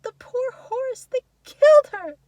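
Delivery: put-on high, broken child's wail; tearful, drawn-out cry rising to a loud peak; sobbing boy. A narrator's reading. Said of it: "he sobs".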